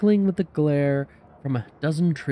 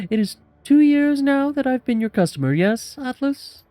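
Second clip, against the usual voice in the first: big jovial man; 11 semitones higher, 4 dB louder than usual. Acted. Big man addresses shopkeeper.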